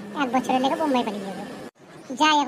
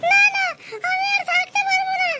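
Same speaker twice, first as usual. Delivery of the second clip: mock panic. Wife panics about husband.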